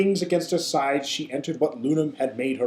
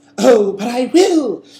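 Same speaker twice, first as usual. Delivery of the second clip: very loud, high, sweetly wicked chuckle; 8 semitones higher, 8 dB louder than usual. A character answers a captive who expects rescue, with an evil but adorable chuckle. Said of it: "said with an evil but adorable chuckle".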